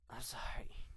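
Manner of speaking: hushed, breaking apology in a whisper; a light tearful whisper; sobbing whisper. Acted. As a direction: whisper it as if through tears. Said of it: "Rainbow Dash sobbed".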